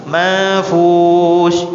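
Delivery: "Manfush" dilagukan, nun samar masuk ke fa; contoh ikhfa. Shown as a demonstration. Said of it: "hurufnya fa". (dilantunkan dengan ikhfa)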